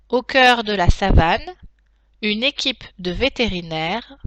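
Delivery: slow dictation, each chunk spaced; dictating. Shown as a demonstration. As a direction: dictate slowly with punctuation spoken. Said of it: "passer à la dictée en elle-même".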